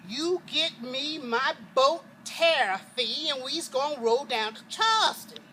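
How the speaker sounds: master yelling. Retold or imitated. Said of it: "he started yelling for his driver".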